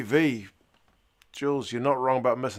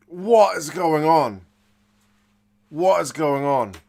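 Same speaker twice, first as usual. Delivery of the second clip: baffled; 2 semitones higher, 7 dB louder than usual. Real, not acted. Still reacting to the restart try.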